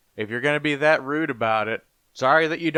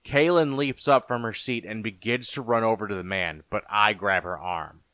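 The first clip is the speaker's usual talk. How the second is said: lower, measured storyteller voice; story narration; 4 semitones lower than usual. A narrator's reading. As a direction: narrate a fantasy horror tale. Narrates fantasy horror story.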